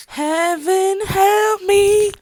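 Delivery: slow, high, drawn-out plea; exasperated. Real, not acted. Exasperated at her clanking coffee cup. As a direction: beg the heavens, exasperated.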